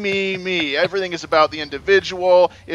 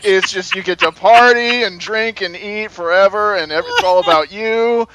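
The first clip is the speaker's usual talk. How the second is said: excited; 3 semitones higher, 6 dB louder than usual. Retold or imitated. Lecturer praising heaven, excited.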